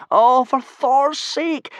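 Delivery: high, loud, slow exasperated gasp. Acted. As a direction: blurt it out in dismay. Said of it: "gasped Hiccup".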